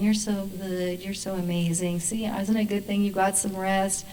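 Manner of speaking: soft, soothing angel praise; little angel. Acted. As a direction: murmur gentle praise like a shoulder angel. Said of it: "the little angel's going".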